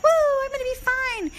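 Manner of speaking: bursting with relieved glee; excited whoop. Retold or imitated. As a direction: celebrate like the problem's solved. Retelling relief after buying filter.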